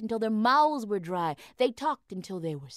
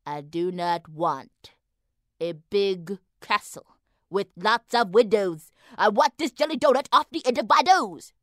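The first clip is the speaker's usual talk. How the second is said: insistent anger; 7 dB louder than usual. Acted. Wife insists, building angrily.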